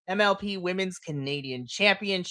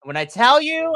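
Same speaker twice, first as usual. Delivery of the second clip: much higher and louder "when I tell you"; excited buildup; 8 semitones higher, 7 dB louder than usual. Real, not acted. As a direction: burst out with excitement. Excited buildup to Killer Kelly.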